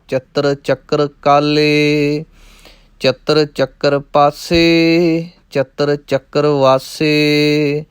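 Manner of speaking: measured, chanting recitation of verse; rhythmic Gurbani recitation; scripture recitation. Acted. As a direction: recite the verses steadily like a path. Recites Jaap Sahib verses.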